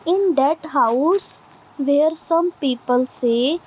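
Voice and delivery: very slow, deliberate recitation, word by word; slow poem reading. Acted. Teacher reading a poem line to students, slow recitation. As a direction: read each line out slowly for the class to follow.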